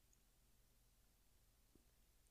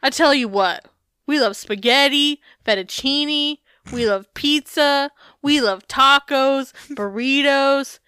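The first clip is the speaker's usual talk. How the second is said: lightly imitated food lover, higher and drawn out; slightly raised, emphatic quoting voice; Lego; 3 semitones higher, 3 dB louder than usual. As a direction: list each dish slowly with emphasis. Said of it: "and Lego says".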